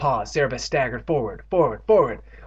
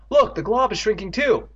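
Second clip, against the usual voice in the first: excited cry; 9 semitones higher, 4 dB louder than usual. Acted. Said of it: "Andy cried".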